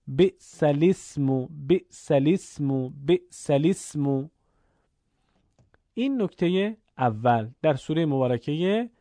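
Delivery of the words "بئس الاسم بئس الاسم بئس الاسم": بئس الاسم repeated, joined as bi'sa-l-ismu; drilling بئس الاسم; repeated recitation. Shown as a demonstration. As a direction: say it again and again, slowly. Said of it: "بخونید".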